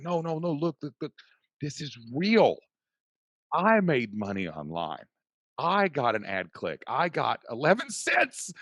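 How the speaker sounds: high, loud re-enacted celebration; retold excited screaming. Husband telling wife about first online earnings, excited screaming. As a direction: replay going bonkers over a tiny win. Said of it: "jumped up and started screaming".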